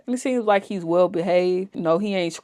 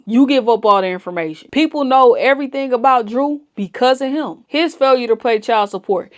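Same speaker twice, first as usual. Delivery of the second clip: heated rant; 3 semitones higher, 4 dB louder than usual. Real, not acted. Heated rant at a TikTok couple.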